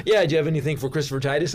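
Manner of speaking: quick, self-assured request at the desk; cocky. Retold or imitated. Guest asking the concierge for his tickets, cocky. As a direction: toss it off like you're expected. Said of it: "I'm kinda, like, cocky".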